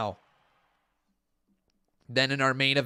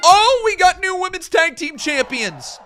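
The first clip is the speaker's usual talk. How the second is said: sudden higher, louder exclaim; surprised; 14 semitones higher, 8 dB louder than usual. Real, not acted. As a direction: react to the news amazed. Surprised by result.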